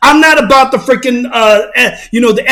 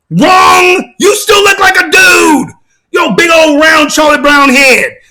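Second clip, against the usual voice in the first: emphatic rebuttal; 5 semitones higher, slower than usual. Real, not acted. Vlogger mocking the caller's selfie, high scornful shout. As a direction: slam the verdict down.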